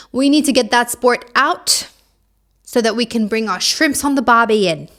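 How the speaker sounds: lightly put-on Australian accent; a hint of hammed-up Aussie accent; mock Australian accent. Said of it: "stop the Australian accent".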